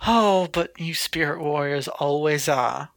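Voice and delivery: put-on a slow, light southern accent. Mary taunting the spirit warrior in a southern accent. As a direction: drawl it like a southern villain. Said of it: "doing the southern accent for her".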